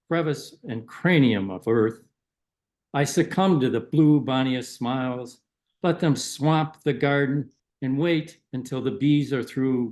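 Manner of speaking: measured poetry recital, phrase by phrase; poem reading. Acted. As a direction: read a poem to an audience, pausing between lines. Reads own poem aloud.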